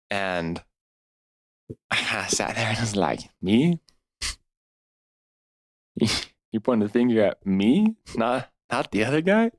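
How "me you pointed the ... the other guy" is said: incredulous disbelief. Retold or imitated. Retelling his shocked reaction to God.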